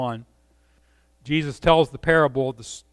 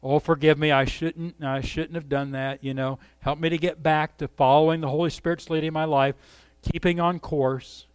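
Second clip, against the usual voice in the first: softer, contrite prayer; a hint of a remorseful believer; guilty; 4 dB quieter than usual. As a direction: mumble a guilty apology. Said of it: "in guilt".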